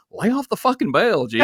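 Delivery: high voice through laughter; amused producer telling him off; laughing headset scold. Retold or imitated. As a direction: scold him over the headset while cracking up. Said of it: "I hear Neil go".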